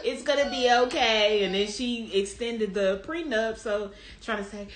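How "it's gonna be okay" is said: slow, measured reassuring wife; imitated reassurance. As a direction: play the wife smoothing things over, slowly. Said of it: "she was like".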